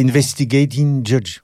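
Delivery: English words in a slow, heavy French accent. Shown as a demonstration. Actor jokes about his accent to the host, in French accent. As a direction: say it slowly with your own French accent. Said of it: "je vais dire ça avec mon accent que tu connais bien".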